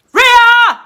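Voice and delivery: sudden high loud cry of a name; yelling for her in panic; panicked call. Retold or imitated. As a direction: shout the name in alarm. Panics calling out during explosion.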